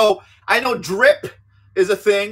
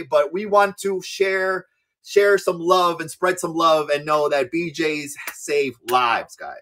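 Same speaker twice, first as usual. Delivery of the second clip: mock sincere; 5 semitones lower, slower than usual. Mock sermon about love.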